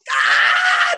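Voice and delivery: high loud yelp of fright; startled yell at a snake on his neck; retold scream. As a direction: shriek as the snake moves. Snake crawls across neck.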